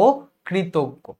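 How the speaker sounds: অকৃতজ্ঞ spelt out slowly as "o ... kritoggo"; o-like first vowel. Shown as a demonstration. Teacher dictating it for writing, slow o-like first vowel. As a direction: hold a separate o, then finish অকৃতজ্ঞ slowly. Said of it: "অটা ও এর মতো করে".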